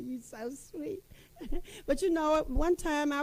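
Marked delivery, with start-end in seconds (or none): 0.0-1.0 slow, lingering "You so sweet" with "sweet" stretched; drawn-out sweet talk. Retold or imitated. Husband answering "how sweet", slow and lingering. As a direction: savor each word like a lover. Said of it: "He said".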